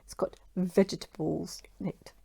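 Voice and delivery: soft unvoiced whisper. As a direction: breathe it out as a whisper. Whispered aside.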